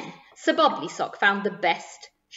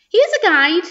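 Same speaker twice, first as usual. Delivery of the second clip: helpful; 7 semitones higher, 7 dB louder than usual. A narrator's reading. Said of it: "she said helpfully".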